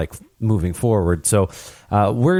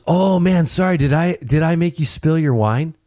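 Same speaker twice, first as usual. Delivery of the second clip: high, loose apology of a tipsy fan; drunk fan; 7 semitones higher than usual. Retold or imitated. Retelling the tipsy fan at the hockey game, high and careless. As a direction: play the drunk guy saying sorry too casually. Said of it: "And he goes".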